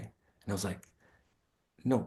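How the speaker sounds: ordinary talk, nothing marked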